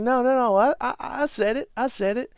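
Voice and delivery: high, loud panicky pleading; frantic denial as the earth shakes; panicked protest. Retold or imitated. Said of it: "he's like".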